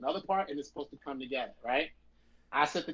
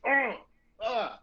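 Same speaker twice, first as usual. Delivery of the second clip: pained mock groan, pitched up; feeling bad; 6 semitones higher, 5 dB louder than usual. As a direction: groan as if guilt just hit. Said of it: "I start feeling bad".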